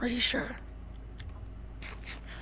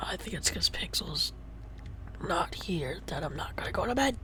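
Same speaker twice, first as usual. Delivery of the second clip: soft breathy whisper; 9 semitones lower, 17 dB quieter than usual. Real, not acted. Player whispering in the dark house, hushed. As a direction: whisper so as not to wake anyone. Whispering again late at night.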